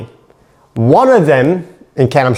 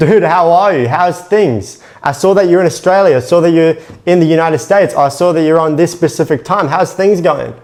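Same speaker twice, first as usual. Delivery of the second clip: upbeat, lively friendly greeting; energetic opener. Shown as a demonstration. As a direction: greet them like an old mate, full of energy. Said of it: "With your energy, with tonality".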